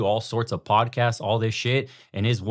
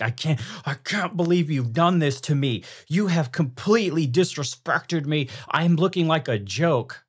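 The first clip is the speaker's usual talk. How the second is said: higher, pleading beta husband voice; mock whiny husband; 6 semitones higher than usual. Husband whining to his wife, in a high mocking voice. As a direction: play the wounded husband complaining.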